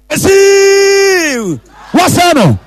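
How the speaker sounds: stretched-out Jesse; excited name call. Real, not acted. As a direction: sing the name out as the ball goes in. Penalty scored, name called out.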